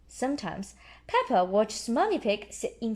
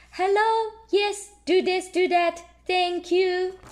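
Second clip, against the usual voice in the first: high, brisk mock-busy; busy phone voice; 9 semitones higher, 5 dB louder, slower than usual. A narrator's reading. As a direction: rattle it off like a busy boss. Peppa on phone as Mummy.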